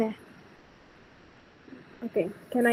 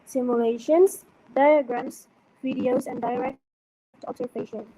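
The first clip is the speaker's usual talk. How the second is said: choppy audio. Real, not acted. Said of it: "your audio is cutting up again".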